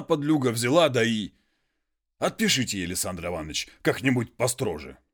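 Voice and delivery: a hint of a humble muzhik pleading; peasant voice.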